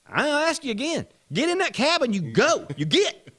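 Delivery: high, loud repeated command; mock stern order. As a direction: send him packing in an acted shout. Acting Gene ordering driver away.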